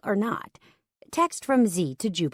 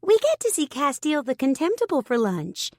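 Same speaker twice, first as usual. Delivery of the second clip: Turner drawling; 8 semitones higher than usual. A narrator's reading. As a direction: drag out the word, mocking. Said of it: "Turner drawled".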